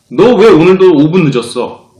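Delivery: loud, slow accusing question; blunt demand. Shown as a demonstration. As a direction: press him with 왜 hard. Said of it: "공손하게 물어봐도 똑같아요". (따지듯 "왜"를 세게)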